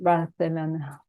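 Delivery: "Barcelona" with a Castilian th, Bar-the-LO-na; "Barcelona" with the c lisped as th. Shown as a demonstration. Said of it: "the T H sound".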